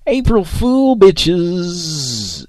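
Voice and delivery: high, loud gleeful shout. Real, not acted. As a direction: yell the prank reveal. Shouted show sign-off.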